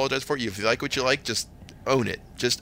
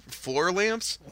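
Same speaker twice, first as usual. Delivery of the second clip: higher, uncertain check-back question; puzzled query; 7 semitones higher than usual. Retold or imitated. Store worker double-checks with customer, puzzled. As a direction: check what the customer meant.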